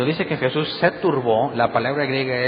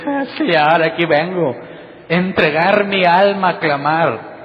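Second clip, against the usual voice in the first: mock dramatic pleading; 3 semitones higher, 4 dB louder than usual. Mocking dramatic believer at prayer.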